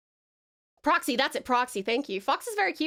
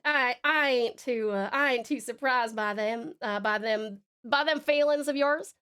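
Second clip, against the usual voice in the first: Southern drawl. Acted. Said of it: "sounds more southern than me".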